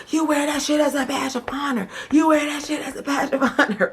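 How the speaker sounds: mock indignant Corey voice; mock heated Corey. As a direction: jab the words at her like Corey did. Retelling Corey's heated accusation.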